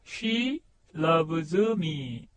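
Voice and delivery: "She loves me"를 아주 느리게, 또박또박 과장해서 발음; "She loves me"를 한 음절씩 천천히 뽐내듯 늘여서; showing off pronunciation. Shown as a demonstration. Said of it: "발음 좋죠?". ("She loves me"를 아주 천천히 과시하듯 발음)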